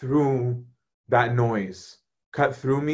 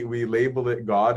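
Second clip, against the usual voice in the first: ordinary delivery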